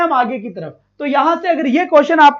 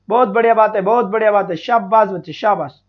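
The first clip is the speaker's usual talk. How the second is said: low-pitched, approving praise; 5 semitones lower than usual. Real, not acted. Teacher to students answering well, approving low praise.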